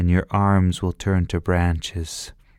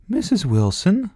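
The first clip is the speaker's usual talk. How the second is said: put-on surprised child; 12 semitones higher than usual.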